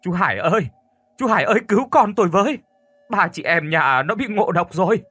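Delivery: loud, high, frantic cry for help; wailing plea for help. Acted. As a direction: call out to the neighbour, panicked and rushing. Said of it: "chạy qua nhà tôi khóc bù lu bù loa".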